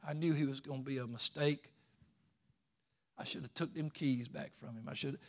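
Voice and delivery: lightly voiced, hushed grudge; mock inner grumble. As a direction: voice a grudge he never held, quietly. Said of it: "He never thought".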